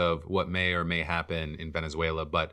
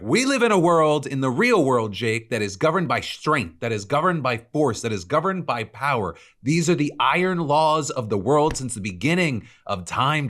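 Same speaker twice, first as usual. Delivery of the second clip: high, loud mock tirade; mock scream; 8 semitones higher, 5 dB louder than usual. Host quoting Stephen Miller in a mock scream. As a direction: bellow it like a strongman's rally speech. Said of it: "I don't know if I need to scream it".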